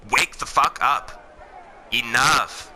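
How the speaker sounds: slow, heavy, drawn-out; exasperated scolding. Real, not acted. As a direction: drag each word out, fed up. Berating the audience.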